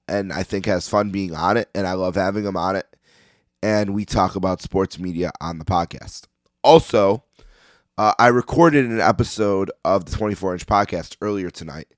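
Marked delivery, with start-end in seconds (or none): 3.6-11.9 hoarse, nearly gone voice; raspy, worn-out voice; losing voice. Real, not acted. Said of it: "apparently I have no voice left".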